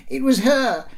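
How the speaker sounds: put-on high, loud accusing child; boy's yell. A narrator's reading. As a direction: yell the blame like a small boy. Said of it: "he yelled".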